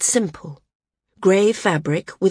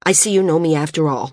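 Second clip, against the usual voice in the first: quick, sharp retort; a bit sharp; much faster than usual. Acted. Val catches her reaction to his nickname, a quick sharp retort. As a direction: snap it back, fast and stung. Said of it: "he said, a bit sharply".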